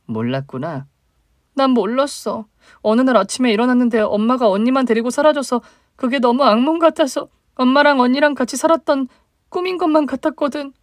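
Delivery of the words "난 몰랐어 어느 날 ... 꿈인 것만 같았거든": higher, plaintive younger sister. Acted. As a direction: voice the hurt little sister reaching up. Younger sister voiced, upset.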